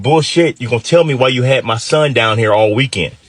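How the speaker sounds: mildly indignant father demanding answers; retold angry dad. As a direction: challenge them as an angry dad, held in check. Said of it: "my dad was pissed".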